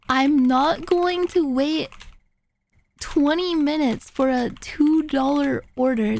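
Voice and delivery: slow, measured mock indignation; imitated annoyance, halting and deliberate; mad driver. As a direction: space the words out, mildly irate. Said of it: "even more mad for no reason".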